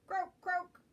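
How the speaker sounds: a loud little frog croak. Acted. Frog voice in picture book.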